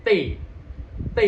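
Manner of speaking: letter T as "te", tongue touching then parting at once; crisp released T. Shown as a demonstration. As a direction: tap and release T sharply. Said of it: "Bersentuhan, tapi langsung berpisah".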